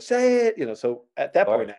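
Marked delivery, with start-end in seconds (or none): 0.0-0.6 high-pitched crowd chant, drawn out; mock audience urging, pitched way up; crowd egging on. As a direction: egg the comic on like a whole crowd. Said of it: "And everybody went".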